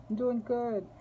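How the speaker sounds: high reply, "doing" carries the fall; stress on doing. Retold or imitated. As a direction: lean on "doing" this time.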